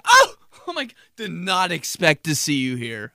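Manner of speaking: squeaky, loud fake shock; hammed-up gasp of surprise; startled stranger mocked in a high squeal. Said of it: "They're like".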